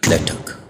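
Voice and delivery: soft clipped ठक like a hammer hitting; playful mouth-made hammer knock; hammer sound effect. Shown as a demonstration. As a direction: tap out the nail, ठक. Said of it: "लग रहा है ना कील लगा रहा हूं".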